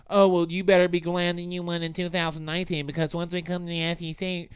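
lightly mocking rival fan; a first, mild take at a cocky fan. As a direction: rival fan taunt, barely voiced. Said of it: "That's not, actually not how they talk".

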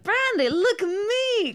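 calling out through laughter, high and slow; laugh-cry it out. Retold or imitated. Drunk at the bar calling to Brandy, laughing. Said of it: "and I was like".

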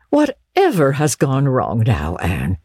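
weary dismay; Marilla's stern voice. Acted. Marilla questions Anne.

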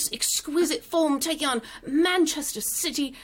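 American host hamming up an English anchor's welcome; Rebecca Lowe impression. Host imitates Rebecca Lowe opening the show, light British accent. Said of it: "me as Rebecca Lowe".

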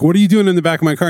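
fast panicked question; rattled, rushing the words. Retold or imitated. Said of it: "You're like".

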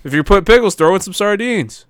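high, loud sarcastic outrage; angry rant. Real, not acted. Co-host objecting to pickles with sardines, angry. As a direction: push the absurd suggestion angrily. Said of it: "It's so angry".

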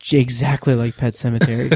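low, intense imitation of the author. Author answering the kid about his book, mock intense. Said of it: "very intense".

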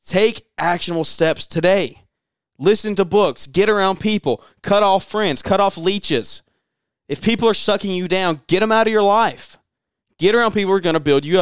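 fired-up podcast host urging listeners to cut off leeches; passionate push. Real, not acted. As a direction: drive each step home like a fired-up coach. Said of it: "but I'm passionate".

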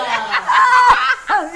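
loud, high burst of laughter; a shrieking laugh of delight; big laughing shout. Real, not acted. The host bursts out laughing at the guest's secret talent, a loud shrieking laugh.

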